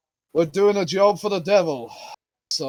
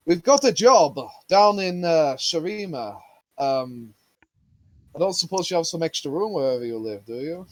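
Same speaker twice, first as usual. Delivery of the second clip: shouting over wind. Acted. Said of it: "the speaker will now shout this entire conversation".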